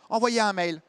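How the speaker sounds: curt secretary shooing him away; cold dismissive fall on envoyez; dismissive brush-off. Retold or imitated. Secretary brushing off a caller, dismissive.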